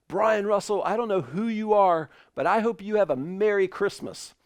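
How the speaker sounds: passenger forced off the plane, mock-cheery and bitter; sarcastic farewell. Bumped passenger addresses whole plane.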